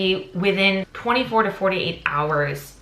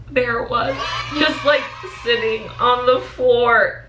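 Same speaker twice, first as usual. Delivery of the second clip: relieved discovery; 6 semitones higher than usual. Retold or imitated. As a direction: reveal it with relieved triumph. Finding the ticket.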